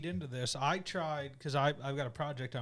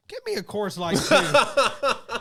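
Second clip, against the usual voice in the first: loud order; 8 semitones higher, 11 dB louder, much slower than usual. Retold or imitated. Friend suddenly orders beer.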